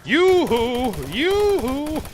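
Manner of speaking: high, loud sing-song call. Acted. Calling out the cartoon's name, high and loud. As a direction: call it across a field.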